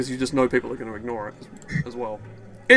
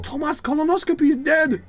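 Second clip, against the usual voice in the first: mock dramatic announcement; 12 semitones higher, 3 dB louder than usual. Real, not acted. Announcing a citizen's death.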